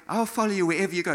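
quick, high, loud pledge; volunteer with great keenness; eager disciple. Acted. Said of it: "the eager beaver disciple".

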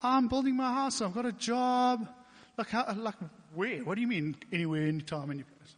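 high, loud disbelief; loud protest. Retold or imitated. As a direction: push back hard in disbelief. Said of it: "And I was like".

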